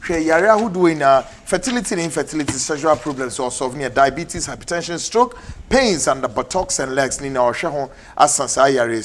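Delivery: brisk, punchy advert voice; lively sponsor read on air; radio ad read. Acted. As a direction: sell the clinic like a radio announcer. Host reads sponsor clinic ad.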